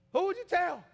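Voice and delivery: very high, loud pulpit demand; real preaching shout; shouted question. Real, not acted. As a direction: fire the question out at full voice.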